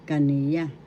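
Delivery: kaniya. with the middle "ni" drawn out; teacher carefully modelling kaniya. as ka-NEE-ya; stress on second syllable. Shown as a demonstration. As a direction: lean on the NI in kaniya. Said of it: "The accent is in the second syllable".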